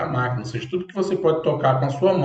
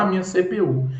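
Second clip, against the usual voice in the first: imitating people; 5 semitones higher than usual. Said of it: "Muita gente fala".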